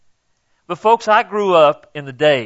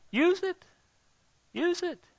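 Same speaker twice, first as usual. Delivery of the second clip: emphatic urging; 13 semitones higher, 10 dB quieter than usual. Real, not acted. Preacher urging the congregation.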